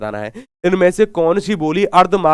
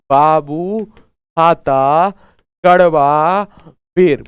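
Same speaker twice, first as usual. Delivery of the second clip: a pause after each of बाबू, खाता, कड़वा, बेर; mnemonic with pauses; 3 dB louder, much slower than usual. Shown as a demonstration. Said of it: "बाबू को क्या खिलाना है?".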